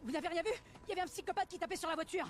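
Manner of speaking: high-pitched frantic outburst; frantic and high, near screaming; panicked shouting. Acted. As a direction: yell it, still terrified of the attacker. Panicked report of attacker.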